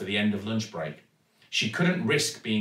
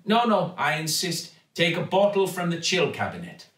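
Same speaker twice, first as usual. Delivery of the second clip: insisting Raj; 6 semitones higher than usual. A narrator's reading. Raj insists the girl take bottled water, eager. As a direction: insist warmly, won't take no.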